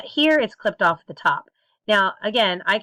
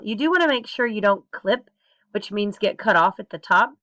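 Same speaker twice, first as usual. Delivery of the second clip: normal talking voice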